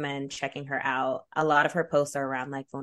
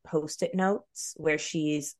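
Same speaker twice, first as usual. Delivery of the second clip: slight lisp from mouth piece; much slower than usual. Real, not acted. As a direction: talk with a light lisp. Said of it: "this is making me have a lisp".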